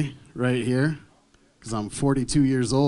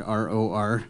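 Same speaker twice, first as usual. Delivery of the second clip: mock Asian accent; 4 semitones lower, slower than usual. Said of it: "he just texted back".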